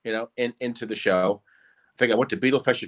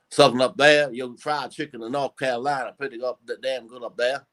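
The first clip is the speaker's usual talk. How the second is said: broad US Southern accent; Southerner. Shown as a demonstration. Impressionist showing the host his Southerner, Southern accent. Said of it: "Southern, Southerner".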